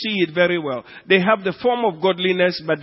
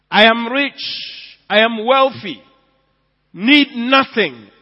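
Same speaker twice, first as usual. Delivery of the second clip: slow mock boast; 6 semitones higher, 8 dB louder, slower than usual. Mocking the boastful church.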